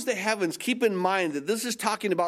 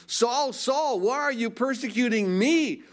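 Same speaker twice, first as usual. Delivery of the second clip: higher-pitched confronting call to Saul; lightly voiced God; 5 semitones higher than usual. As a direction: lightly act out a divine rebuke. Acted dialogue, God confronts Saul.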